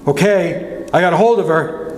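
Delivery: high, strained call; shouting. Retold or imitated. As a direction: shout it up from over the edge. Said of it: "Uncle Chick shouted".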